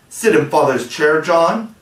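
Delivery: appalled at the very idea; Wendy aghast at John's request; scandalized. Acted. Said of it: "Wendy was scandalized".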